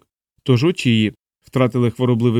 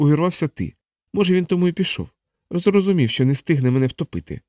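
high-pitched, anxious account of an attack; frightened young woman; 5 semitones higher than usual. Acted. Angela telling Vlad about the intruder, shaken. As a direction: tell it in a higher woman's voice, still shaken.

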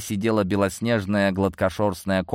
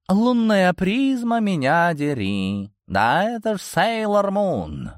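delighted; 10 semitones higher, slower than usual. Acted. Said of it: "восхитился кошак".

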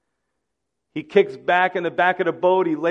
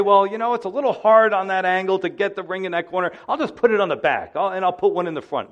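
higher, louder, fast casual grumble; mock excuse; 4 semitones higher, 3 dB louder, faster than usual. The ark builders imagined excusing themselves to God, mock casual and fast. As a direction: play a lazy worker making excuses.

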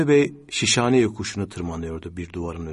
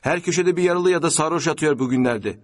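higher-pitched irritated complaint; grumbling; 7 semitones higher, 4 dB louder than usual. A narrator's reading. Passenger grumbles about wounded men, irritated. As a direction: grumble in open annoyance. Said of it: "diye söylendi".

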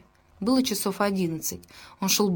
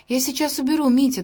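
hurried; 6 semitones higher, 3 dB louder than usual. A narrator's reading. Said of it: "торопливо сказала Аня".

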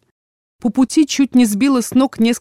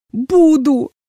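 a defiant cry, higher and louder, close to tears; shouting back; 7 semitones higher, 5 dB louder than usual. Acted. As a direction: hurl the word back at him. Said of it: "выкрикнула я".

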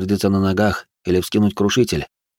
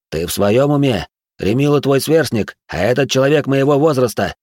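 incredulous rebuke; 5 semitones higher than usual. Acted. Kselim rebukes Zora.

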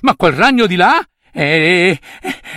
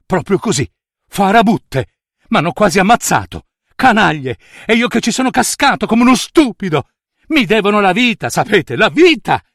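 indignazione; 3 semitones higher than usual. Acted. Nutria indignata contro le streghe.

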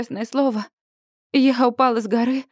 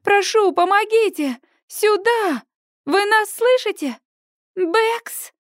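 desperate call; 9 semitones higher, slower than usual. A narrator's reading. Desperate calling for rescuers.

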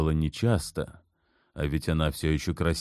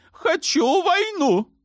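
much higher, slow insistent cry; insane demand; 5 dB louder, slower than usual. A narrator's reading. Sultan demanding war, high and slow. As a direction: drag out the demand madly. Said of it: "как безумный закричал Ибрагим".

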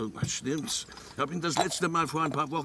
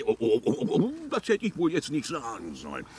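ertappt; faster than usual. Acted. Merkt Fauxpas, plappert hastig.

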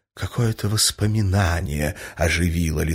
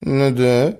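flustered; 7 semitones higher, 4 dB louder, slower than usual. A narrator's reading. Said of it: "отвечал растерявшийся князь".

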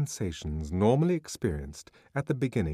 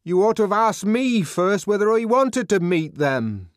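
high, loud stubborn shout; loud refusal; 12 semitones higher, 10 dB louder than usual. Acted. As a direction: yell back through the door. Refusing through a locked door.

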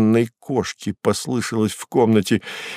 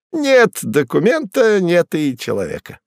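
much higher, smug high voice, «Нет» stressed; satisfied Koroviev; 8 semitones higher than usual. Acted. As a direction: savor «Нет документа» with glee. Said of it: "удовлетворённо говорил Коровьев".

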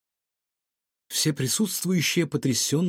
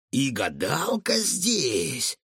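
surprised; much slower than usual. A narrator's reading. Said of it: "удивлённо воскликнул Рикошет".

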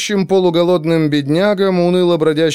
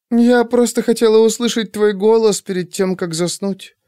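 drowsy, fading into softness; nodding off, words trailing away; sleepy voice; 7 semitones higher than usual. Acted. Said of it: "сонным голосом ответила Наталья". (сонным голосом)

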